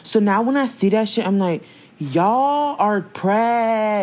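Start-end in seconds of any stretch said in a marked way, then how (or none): 2.0-4.0 indignant call-out. Retold or imitated. Voicing reaction to slang posts.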